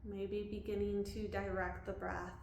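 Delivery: calm body-scan guidance with long pauses; unhurried, leaving room to breathe between phrases; guided meditation. Real, not acted. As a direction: guide them gently through a body scan.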